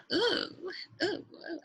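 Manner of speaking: high, delighted little oohs. Real, not acted. Browsing voice effects, excited at a fun name, high delighted oohs. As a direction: coo with glee at a shiny new option.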